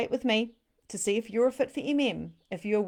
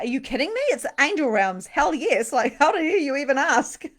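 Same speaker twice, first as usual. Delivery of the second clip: louder, higher, all-in gush of excitement; gushing enthusiasm; 8 semitones higher, 9 dB louder than usual. Retold or imitated. A student asked to repeat the course, she gushes excitedly. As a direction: play her as thrilled and mock-offended. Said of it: "but that was the energy".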